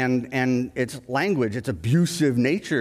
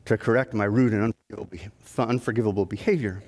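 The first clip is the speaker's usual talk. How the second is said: a touch of calm, overly polite contrition; lightly voiced parrot, primly apologetic and low; 3 semitones lower than usual. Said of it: "calmly says to him".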